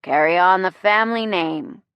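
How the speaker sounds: tipsy proclamation to a crowd; sloshed speechmaker, projecting; drunken. A narrator's reading. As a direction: declaim it boozily, stretching the words. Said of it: "Jameson drunkenly informs the crowd".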